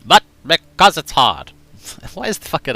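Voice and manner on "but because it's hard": Kennedy impression. Shown as a demonstration. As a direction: hit the speech ending like Kennedy. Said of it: "The accent was fine there".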